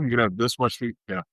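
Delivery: fast, flat reply from the expert; curt dietitian answer. Retold or imitated. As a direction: rattle it off like a bored dietitian.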